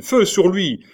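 high, very loud order to fire; shouted command. A narrator's reading. Queen mother orders sentinels to fire, shouting. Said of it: "dit Catherine".

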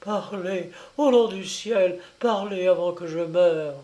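high, pleading cry; mother begging her silent son before she dies; heartrending cry. Acted. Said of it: "elle répéta avec un cri déchirant".

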